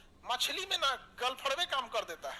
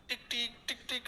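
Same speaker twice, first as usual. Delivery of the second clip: soft beat imitation; 2 semitones lower, 9 dB quieter than usual. Shown as a demonstration. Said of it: "ऐसे बजता है".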